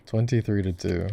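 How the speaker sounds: laughing disbelief at the score; amused, laughing. Real, not acted.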